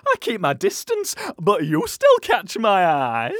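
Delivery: put-on old woman voice.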